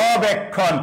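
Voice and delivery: অবেক্ষণ with the opening অ held long; vowel demo. Shown as a demonstration. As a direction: stretch the first vowel of অবেক্ষণ so learners hear it. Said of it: "জয়ের পর একটা অ উচ্চারণে আছে".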